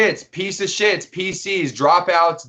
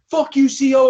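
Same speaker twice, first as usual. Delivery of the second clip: mock yell at guard; 9 semitones higher, 5 dB louder than usual. Inmate yelling at guard.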